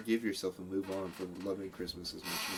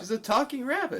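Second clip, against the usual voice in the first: incredulous; 14 semitones higher, 4 dB louder than usual. Real, not acted. Incredulous insistence in argument.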